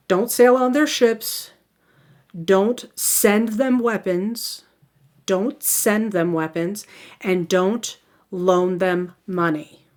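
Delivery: slow dictation with pauses between rules; deliberately slow. Real, not acted. Lecturer repeating the neutrality rules for students, deliberately slow. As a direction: lay out each rule carefully for note-takers. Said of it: "I'm gonna try to say this slowly".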